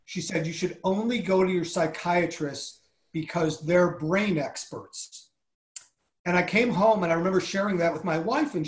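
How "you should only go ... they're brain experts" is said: retold advice with "brain experts" drawn out slowly; pointed quote. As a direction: quote it carefully, slowing right down on "brain experts". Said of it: "listen carefully to how she said this".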